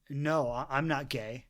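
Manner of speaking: low, soft, halting reply; sheepish denial. Retold or imitated. Young man answering the woman's question, quiet and sheepish. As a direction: shrink back as you deny it.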